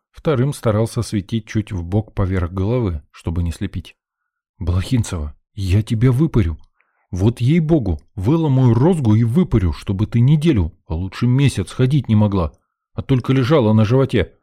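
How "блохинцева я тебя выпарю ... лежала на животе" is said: put-on scolding the girl for the scare. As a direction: threaten her like an angry father.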